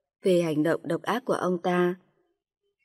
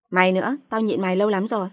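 fast, louder, biting tirade; aggressive scolding; 3 dB louder, faster than usual. Acted. Sister-in-law finally explodes at the narrator, fast angry scolding. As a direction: hurl it at her like a long-held grudge. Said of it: "Kiều hùng hổ chửi tôi".

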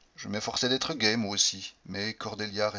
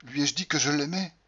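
anguished voice; 5 semitones higher than usual. Acted. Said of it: "quelle voix d'angoisse".

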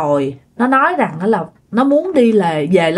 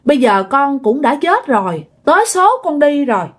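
gently insistent plea, often higher; retold pleading; 4 semitones higher than usual. Dead son speaking through sister to father, retold pleading. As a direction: implore Dad in a lightly acted voice. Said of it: "nó nói thêm rằng là".

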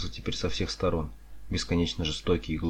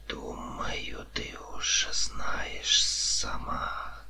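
slow, soft hissing whisper; insinuating snake-man whisper; knowing serpent; 4 dB quieter, much slower than usual. A narrator's reading. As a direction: whisper it slyly, drawing out the sibilants.

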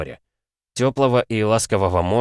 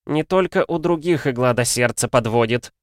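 a touch of prim, pious reproach; lightly voiced sanctimonious alchemist; sanctimonious little voice; 5 semitones higher than usual. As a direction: say it like a smug hypocrite. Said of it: "ханжеским голоском заявил алхимик".

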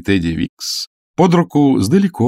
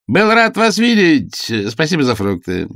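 Teddy carelessly dismissing his visitors; offhand; 7 semitones higher, 3 dB louder than usual. A narrator's reading. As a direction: toss off the goodbye carelessly. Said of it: "небрежно бросил Тедди".

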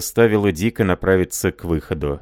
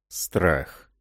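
grumbling; 2 semitones lower, 5 dB quieter than usual. Acted. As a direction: mutter it under the breath. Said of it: "пробурчал боксёр".

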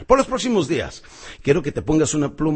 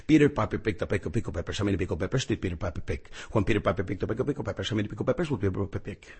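pen in mouth; 5 semitones lower, 5 dB quieter than usual. Shown as a demonstration. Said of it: "estaba yo con mi pluma".

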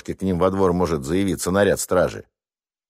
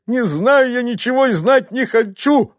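wife screaming at husband; screaming like mad. Acted. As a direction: scream as if being slaughtered. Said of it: "орала баба, как резаная".

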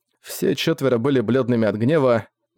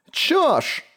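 put-on a very high screech of an old woman; old woman's shriek. A narrator's reading. Old woman yelling at the thief even higher. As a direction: screech it out as the outraged crone. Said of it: "кричала старуха ещё на тон выше".

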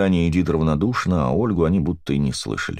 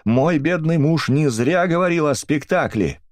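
high, slow accusing cry; high slowed-down wail of blame; grieving angry cry; 11 semitones higher than usual. A narrator's reading. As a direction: rail at her in grief. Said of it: "вскричала миссис Брикстер".

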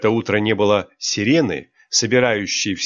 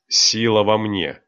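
mechanical reply; slower than usual. Acted. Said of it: "машинально ответила девушка".

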